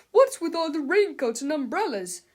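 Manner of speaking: angry yell. A narrator's reading. Mister Krupp demanding answers, angry shout. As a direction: bellow at the class. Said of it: "he yelled".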